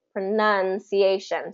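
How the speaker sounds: "pronunciation" slowly, beats on NUN and A; measured demo, "pronunciation" as pro-NUN-ci-A-tion; two-stress demo. Shown as a demonstration. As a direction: mark both stresses in "pronunciation". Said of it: "there is a secondary stress".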